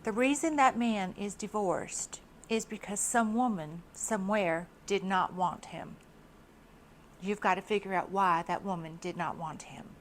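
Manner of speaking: light Southern accent, lightly voiced; a hint of a wise Southern lady's accent. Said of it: "I'm gonna do her Southern accent".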